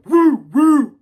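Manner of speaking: high, loud celebratory woo; excited cheer. Real, not acted. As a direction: cheer it out, pumped for the weekend. Celebrating that it's Saturday.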